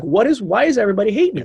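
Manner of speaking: high, hammed-up whine; mock self-pity. Bar back stared at by people, mock self-pitying whine. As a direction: plead it like a wounded kid. Upset bar back's inner complaint.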